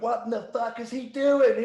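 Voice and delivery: high, loud imitation of an angry boss; furious boss. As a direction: do the boss blowing up, dragging it out. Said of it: "Jeff just turned around and went".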